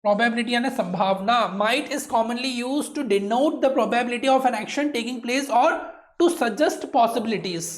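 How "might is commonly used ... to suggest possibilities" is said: slow dictation. Shown as a demonstration. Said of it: "teacher reads definition slowly".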